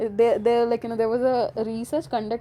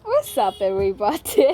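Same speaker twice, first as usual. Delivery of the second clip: mock host greeting; 2 semitones lower, 4 dB louder than usual. Stuck for a topic, a hammed-up host greeting. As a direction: greet like a cheesy vlogger. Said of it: "So I'm like".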